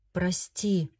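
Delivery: muffled. Acted. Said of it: "глухо произнёс Фредерик". (глухо и тихо)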